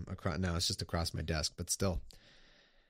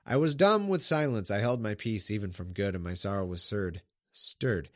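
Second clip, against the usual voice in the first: measured solemn Bible reading; scripture reading. Acted. Streamer reading the psalm aloud to viewers, solemn. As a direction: read the psalm like a sermon text.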